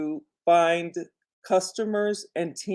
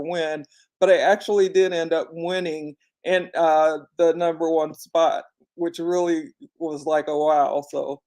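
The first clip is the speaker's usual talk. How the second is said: dry mouth. Real, not acted. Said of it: "my mouth is dry".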